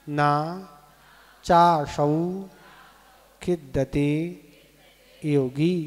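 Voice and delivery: each word said separately, measured and deliberate; pronunciation demo. Shown as a demonstration. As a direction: sound out the Sanskrit for pupils to repeat. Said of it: "एक बार और". (एक-एक शब्द का स्पष्ट उच्चारण)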